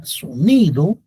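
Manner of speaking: "sonido" with NI lifted and drawn out; so-NI-do, NI clearly marked; stress on middle syllable. Shown as a demonstration. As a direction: lean on the NI in "sonido". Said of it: "la sílaba tónica es ni".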